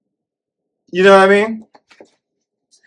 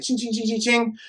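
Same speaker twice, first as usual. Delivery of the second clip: blade scrape sound; 6 semitones higher, 10 dB quieter than usual. Retold or imitated. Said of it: "his Freddy Krueger light".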